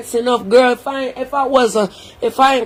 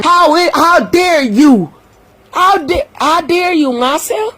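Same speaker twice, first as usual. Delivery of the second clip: raised, outraged scolding; 5 semitones higher than usual. Real, not acted. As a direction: throw it back at her in disbelief. Outraged at Marcia's remarks.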